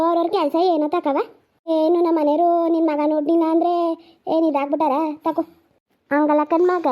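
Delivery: loud, insistent village scolding. Acted. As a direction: push back hard at the relative. Village family argument, loud.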